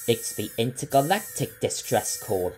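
exclaiming. A narrator's reading. Captain recognising the alarm, exclaiming. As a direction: sound the alarm. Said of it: "exclaimed Captain Fryce".

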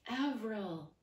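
high startled naming of Avril; the three clones recognizing Avril; surprised cry. Acted. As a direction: gasp her name in unison. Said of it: "They spoke with one breath".

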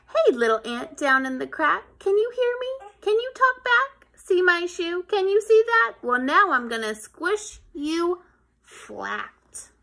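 put-on loud, high taunting boy; bossy kid. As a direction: tease the tiny ant from above. Kid threatens the ant.

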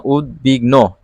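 উদ্বিগ্ন said slowly, syllable by syllable; broken into syllables. Shown as a demonstration. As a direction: break উদ্বিগ্ন apart slowly. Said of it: "ভেঙে ভেঙে আর কি দেখাইতে হয়".

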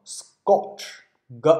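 "scotch" with the c voiced to a g sound; voiced consonant. Shown as a demonstration. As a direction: say "scotch" like sgotch, then a separate g. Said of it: "注意这儿要浊化".

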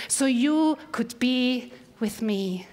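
"So you could be with me" drawn out slowly, "you" stressed; slow it right down and hit "you"; slow emphasis. Shown as a demonstration. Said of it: "why all of it?".

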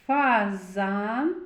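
"Фазан" drawn out to bring out the "з"; sounding out Z. Shown as a demonstration. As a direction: linger on the middle z of "Фазан". («Фазан» з виділеним звуком «з»)

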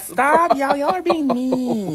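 high, laughing plea; laughing protest. Real, not acted. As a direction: giggle through the complaint. Teased by friends, laughing.

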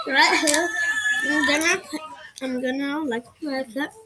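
talking while eating chips; crunching chips. Real, not acted. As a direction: mouth full of chips. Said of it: "Sorry, I'm eating chips".

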